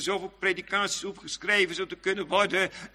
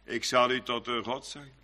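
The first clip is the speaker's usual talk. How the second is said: softer, lower, reverent murmur; hushed awe; 8 semitones lower, 5 dB quieter than usual. Acted. Preacher hushes God's words to the congregation, softer and lower. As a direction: breathe God's promise almost to yourself.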